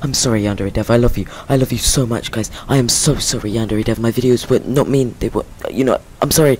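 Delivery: loud panicked apology; pleading at gunpoint. Acted. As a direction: grovel loudly to the captor.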